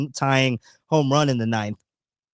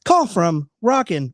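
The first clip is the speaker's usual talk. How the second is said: mimicking phone prompt; 4 dB louder, slower than usual. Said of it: "You guys heard that too".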